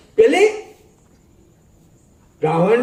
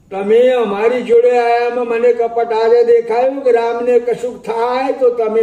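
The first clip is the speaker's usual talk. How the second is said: repeated higher and louder in anger; angry reproach; 5 semitones higher, 4 dB louder than usual. Acted. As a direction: Sita lashing out at Lakshman. Sita accuses Lakshman. (ગુસ્સામાં ઊંચા, મોટા અવાજે)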